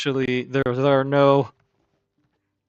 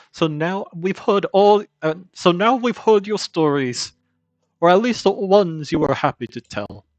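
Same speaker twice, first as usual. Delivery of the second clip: lightly voiced kindly grandmother; old granny voice; 6 semitones higher, 4 dB louder than usual. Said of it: "I have to do an old granny voice".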